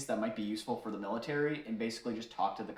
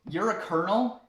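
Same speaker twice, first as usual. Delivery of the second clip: a mock braggart topping the colonel, a bit higher and louder; boastful one-up; 4 semitones higher, 5 dB louder than usual. Drunk regular telling the colonel he outranks him, boastful. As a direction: puff up and trump his rank.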